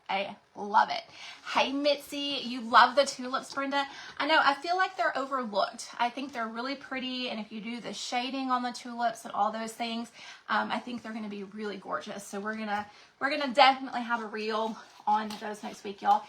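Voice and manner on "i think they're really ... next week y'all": out of breath. Real, not acted. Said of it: "If I sound like I am out of breath".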